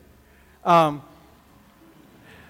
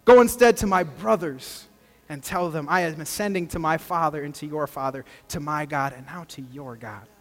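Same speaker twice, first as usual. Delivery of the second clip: scripture reading. Acted. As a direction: read the passage gently to the congregation. Reads the scripture passage aloud.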